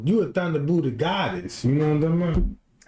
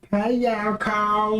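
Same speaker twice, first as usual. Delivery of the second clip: slow, drawn-out coaxing call; sweet-talking call; 4 semitones higher, much slower than usual. Acted. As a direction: lure the cat gently. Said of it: "give that motherfucker a little".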